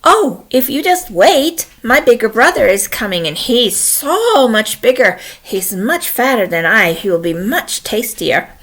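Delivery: lightly voiced pleading goat; mildly wheedling middle goat; medium goat. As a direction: coax the troll with stretched words. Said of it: "Medium Billy Goat Gruff said".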